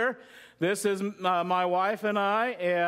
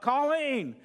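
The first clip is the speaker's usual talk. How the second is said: a higher call across the house; calling out for help; 5 semitones higher than usual. Pretend. Husband needing help calls wife across the house. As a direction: call her name because you need a hand. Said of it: "I yell out".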